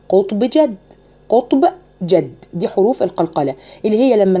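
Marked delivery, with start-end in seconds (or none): 0.1-2.3 قطب جد with bounced stops; qalqala letters. Shown as a demonstration. Teacher lists the qalqala letters. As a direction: bounce each stop in قطب جد. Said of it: "إيه هي حروف القلقلة".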